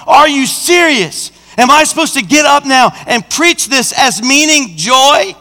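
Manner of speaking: indignant pulpit protest; incredulous protest. Retold or imitated. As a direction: challenge God in disbelief. Acted protest to God.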